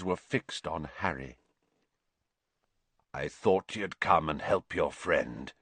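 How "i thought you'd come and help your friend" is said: hoarsely. A narrator's reading. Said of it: "he said hoarsely".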